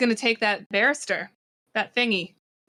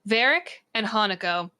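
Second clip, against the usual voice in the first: measured, deliberate scene-setting; game master narration. A narrator's reading. Game master narrating Varric's attack to players, dramatic narration. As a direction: announce each move with dramatic weight.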